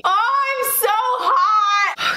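slow, loud, high complaint of heat; drawn-out overheated cry. Pretend. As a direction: groan it out, exhausted and hot. Mock labor, overheated.

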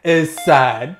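loud, high, hammed-up fake sympathy; mock pity. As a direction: wail 'oh no' in over-the-top sarcastic pity. Mocking the sad husband.

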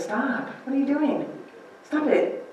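God says stop. Retold or imitated. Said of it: "And God says".

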